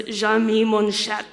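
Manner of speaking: slow, tentative French pronunciation; attempted French accent. Real, not acted. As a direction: try your best French accent, slowly. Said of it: "however you say it in the best French accent".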